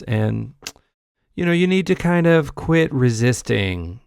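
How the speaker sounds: mock-patient, softened explaining; falsely reasonable, patronizing calm; calm, reasonable condescension. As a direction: imitate someone gently talking down to liberals. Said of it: "in a kind of a calm, reasonable sounding way".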